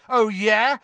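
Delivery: loud, high, angry challenge; heated rising retort; yelling back. A narrator's reading. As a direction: fire it back at a shout. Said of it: "Ron yelled back".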